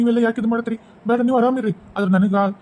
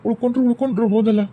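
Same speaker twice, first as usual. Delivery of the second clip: mourning lament. Acted. Widower mourns wife and children.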